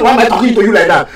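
rushed, mocking parrot of his words; quick scornful mimic; mocking quote. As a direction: toss his question back fast and sneering. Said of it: "and you are telling".

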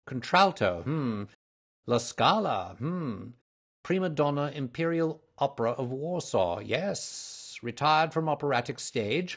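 high-pitched reading with hums between items; musing Holmes. A narrator's reading. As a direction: skim the notes aloud, reacting to yourself. Voices Holmes reading the index aloud.

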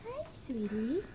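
soft whispered greeting to the kitten. Real, not acted. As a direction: breathe it so you don't startle him.

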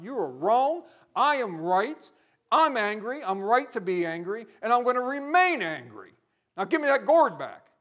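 loud, high, indignant yelling at God; defiant angry shout. Retold or imitated. Jonah shouting back at God, angry and defiant. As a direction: bellow it like a stubborn prophet. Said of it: "the boldness to confront God and tell God".

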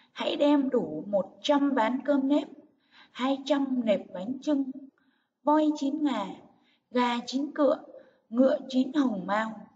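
measured list, "voi chín ngà" lifted, a pause after every item; stress and pauses. Shown as a demonstration. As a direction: stress "một trăm", "hai trăm" and each "chín", pausing between gifts. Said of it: "chú ý nhấn giọng và ngắt nghỉ hơi".

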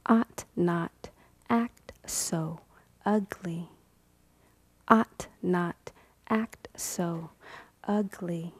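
whispered scold; soft whispered reproach. Acted. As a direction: hush it down to breath. Refrain whispered.

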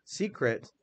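"secret" said naturally, ending like "-crit"; sounds like it. Shown as a demonstration. Teacher shows the class how secret sounds, "-crit" ending. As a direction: let "secret" end in a soft "-crit". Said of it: "It sounds like it".

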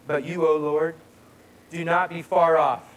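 firm, emphatic reading of a plea; scripture reading. Acted. Preacher reading a psalm's plea to God, emphatic. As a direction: read it out strongly, in a measured way. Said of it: "I'll do it again for you".

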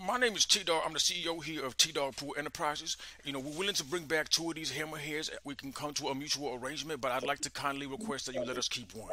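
a lightly voiced smooth business partner; slick associate. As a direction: play the calm CEO associate, barely changed. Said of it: "talk to my associate".

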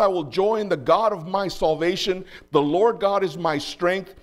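ringing, emphatic reading of praise; joyful scripture declamation. Acted. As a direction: proclaim the psalm-like ending to the congregation.

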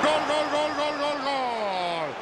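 goal call, stretched slow at the end; breakneck goal commentary. Acted. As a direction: hold each gol long.

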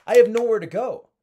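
high and loud, maxed out; shouting at the top of the range; over-excited. Shown as a demonstration. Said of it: "way up here".

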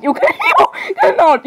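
high cackling laugh through the words; psychopath laughter. Acted. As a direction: cackle like a maniac. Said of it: "the most amazing psychopath laughter".

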